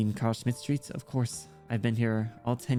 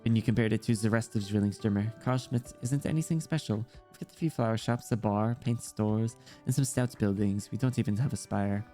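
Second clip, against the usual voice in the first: lightly voiced child with German accent; understated German-accented character voice; German-accented young girl; 2 semitones lower than usual. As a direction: chat like a German kid, lightly.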